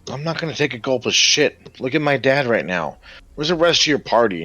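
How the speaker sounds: defiant snap. Acted. Son defies player, pitch rising.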